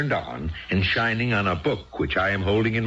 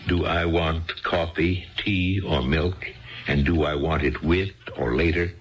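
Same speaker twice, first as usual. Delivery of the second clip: mocking repeat. Husband repeats her question mockingly.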